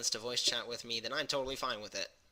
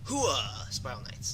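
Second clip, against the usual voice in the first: barked military cheer, pitched up; slower than usual. Pretend. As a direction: shout it like a charging trooper. Gamer echoing the game's cheer.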